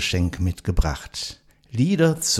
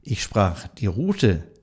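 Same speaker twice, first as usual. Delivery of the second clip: poem recital. Acted. Host reciting a poem to nursing home residents, measured recital. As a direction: recite it like a classic holiday poem for listeners.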